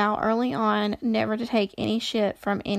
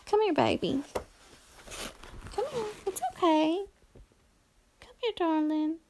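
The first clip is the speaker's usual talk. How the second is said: higher, soft coaxing voice; coaxing cat; 8 semitones higher, 4 dB quieter than usual. Real, not acted. Reader coaxing her cat to come, soft and high. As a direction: sweet-talk the cat over.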